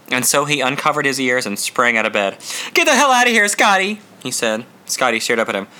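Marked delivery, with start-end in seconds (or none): 2.7-4.0 high, loud furious order; angry shout. Acted. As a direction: throw him out with a yell. Jack ordering Scotty out.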